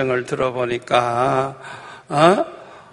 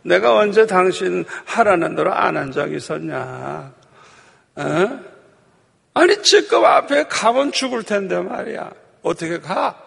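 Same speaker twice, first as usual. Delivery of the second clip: donkey's reproach; 3 semitones higher than usual. Retold or imitated. Donkey scolds its master for beatings, reproachful. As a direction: push back like an aggrieved donkey. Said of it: "책망을 하죠".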